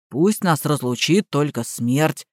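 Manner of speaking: automatic repeat. A narrator's reading. Gardener echoes the vow automatically, low and soft. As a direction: say it on autopilot, slow. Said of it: "автоматически повторил Иван".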